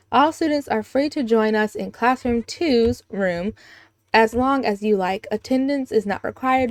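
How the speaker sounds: lightly voiced teacher addressing the class; a hint of formal school announcer; teacher's announcement. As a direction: announce it to a room of students.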